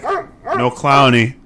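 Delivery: slow emphatic. Real, not acted.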